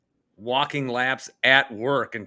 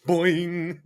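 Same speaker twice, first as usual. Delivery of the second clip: boing sound; 5 semitones higher than usual. Retold or imitated. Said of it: "we say".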